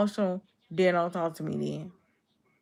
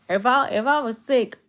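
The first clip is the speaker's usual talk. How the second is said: frustrated; 6 semitones higher, 6 dB louder than usual. Real, not acted. Repeats her point, now frustrated.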